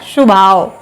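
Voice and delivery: शुभाव with an added u sound; the mistaken शुभाव, u pushed in; wrong pronunciation. Shown as a demonstration. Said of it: "ऊ की मात्रा जानबूझ के घुसेड़ रहे हैं".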